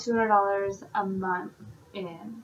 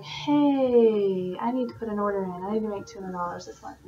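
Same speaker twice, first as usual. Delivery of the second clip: hassling consultant. Retold or imitated. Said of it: "you're not always hassling them saying".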